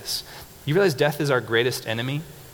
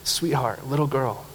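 tender call. Retold or imitated. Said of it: "He says".

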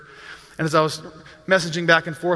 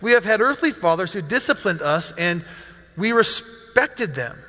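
measured reading aloud with pauses; scripture reading. Acted. Pastor reads the passage to the congregation, measured scripture reading. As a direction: read the passage deliberately, phrase by phrase.

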